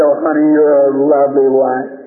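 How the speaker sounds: tender reassurance. Retold or imitated. Husband embracing and comforting his wife.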